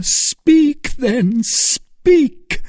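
high, loud urging cry; urgent cry. A narrator's reading. Felton crying out to Milady to speak. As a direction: press her hard to speak. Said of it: "cried the young officer".

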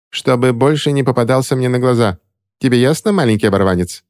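выше, с пренебрежением; отчитать оборванца свысока; надменная ведьма. A narrator's reading. Ремора напутствует Чарли. (надменное напутствие Чарли)

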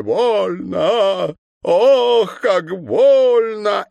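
high, loud, slow wailing howl; cry of pain. A narrator's reading. Governor crying out under the injection, loud and wailing. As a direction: howl out the pain, close to sobbing. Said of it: "новый вопль, перешедший в рыдание".

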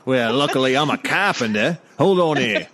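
amused put-on Cockney handyman; lightly hammed Cockney husband; Cockney accent. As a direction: take charge in mock Cockney. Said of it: "it's, it's Cockney".

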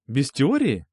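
mock-incredulous echo, rising. Boy echoes her word in mock disbelief. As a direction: echo it back as if surprised. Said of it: "Хочешь сочинение сразу?".

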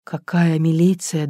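usual speaking voice

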